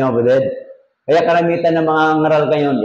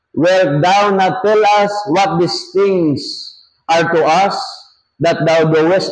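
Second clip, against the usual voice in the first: slow, higher-pitched Bible reading; raised, measured pulpit reading; scripture reading; 4 semitones higher, slower than usual. Acted. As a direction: read the verse out deliberately, pitched up. Reads scripture aloud to congregation.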